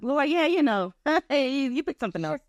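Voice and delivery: high, half-laughing bargaining; laughing plea. Retold or imitated. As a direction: beg with a laugh. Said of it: "And so I'm like".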